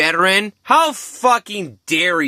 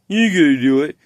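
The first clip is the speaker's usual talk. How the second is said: the taunt again, pushed louder with a rise on ain't; louder mocking chat; faster than usual. Quoting the stream chat egging him on, louder mock taunt. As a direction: chat viewer goading harder, a touch more volume. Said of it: "your chat is telling you".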